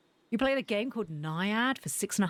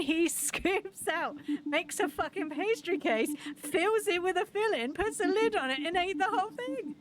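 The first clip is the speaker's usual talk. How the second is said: high-pitched, outraged disbelief; incredulous; 7 semitones higher than usual. Real, not acted. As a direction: climb higher as each absurd step piles up. Incredulous recap of the pie story.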